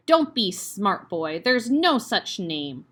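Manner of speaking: slow and loud, each word weighed; slow menacing scold. Acted. Headmistress scolds Eric slowly and loudly. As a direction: lay down the law, menacing.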